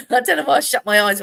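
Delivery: giggling through the words; self-conscious chuckle while talking; laughing. Real, not acted. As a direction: laugh at herself as she speaks.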